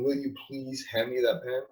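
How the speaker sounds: soft, polite request for the pen; polite asking. Shown as a demonstration. Demoing the weak way of asking, soft and polite. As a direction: ask meekly, like a favor. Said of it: "You're not saying".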